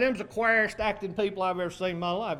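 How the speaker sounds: Tennessee mountain brogue. Retold or imitated. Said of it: "her, uh, Tennessee mountain brogue".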